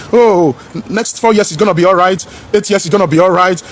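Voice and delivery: lightly mocking hopeful voice; mock optimism.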